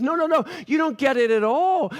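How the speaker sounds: a touch of exasperation; mild rebuke. Acted. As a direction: set them straight, lightly acted. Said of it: "has to rebuke the disciples".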